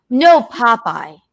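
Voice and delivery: slow gruff Popeye voice; a quick Popeye growl. Acted. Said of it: "he'll talk like that for an hour".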